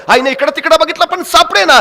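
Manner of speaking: plain reading voice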